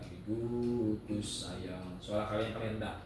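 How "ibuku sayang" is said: sung low, slow and soft; low alto. Shown as a demonstration. Teacher showing the alto part to the class. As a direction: drop to the lowest alto note. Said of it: "ibu paling rendah".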